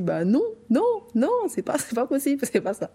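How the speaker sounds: non répétés, montés dans l'aigu; imitated categorical refusal, rising high on the repeated no; refus catégorique imité. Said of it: "comme si". (refus outré, en imitation)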